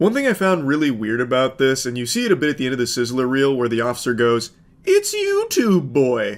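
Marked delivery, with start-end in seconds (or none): 4.8-6.4 high, swooping cartoon owl voice. Quoting an officer at the end of the Sizzler reel: Tootsie Pop owl voice. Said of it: "sounding like the owl from the How Many Licks".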